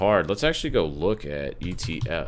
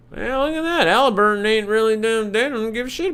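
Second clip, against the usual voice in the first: surprised; 13 semitones higher than usual. Real, not acted. Surprised by a stock chart.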